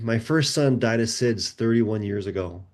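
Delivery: low, slow retold confession; grave disclosure. Mother revealing her first son's death, grave.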